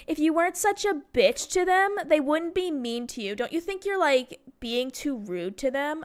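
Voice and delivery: mock a classmate's reproach; catty scolding. Classmate blames her for being bullied, catty scolding.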